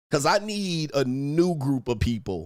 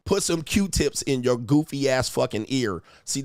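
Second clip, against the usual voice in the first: normal talking voice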